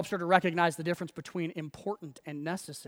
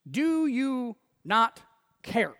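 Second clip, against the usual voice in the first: high, drawn-out accusing question; accusatory question; 6 semitones higher, 4 dB louder, much slower than usual. Acted. Martha confronting Jesus over her sister, accusatory. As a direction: make each word an accusation. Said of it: "one of those accusatory questions".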